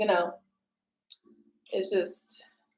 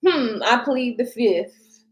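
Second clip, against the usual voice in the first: mock evasive; 3 dB louder, much slower than usual. Voicing a silent commenter.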